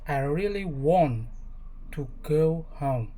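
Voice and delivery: controlled British English accent. Shown as a demonstration. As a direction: say it the British way, R dropped. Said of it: "and British English".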